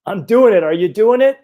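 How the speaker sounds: challenging call. Retold or imitated. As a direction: call back over your shoulder, daring him. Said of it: "And Katie goes".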